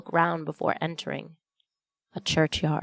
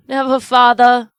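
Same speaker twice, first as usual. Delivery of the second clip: put-on higher and louder, children answering together; a heartfelt chorus of promise; crying out; 7 semitones higher, 12 dB louder than usual. A narrator's reading. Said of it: "cried they all".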